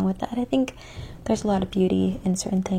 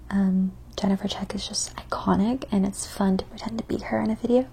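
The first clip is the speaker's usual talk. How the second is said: ASMR whisper. Acted. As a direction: whisper close to the mic.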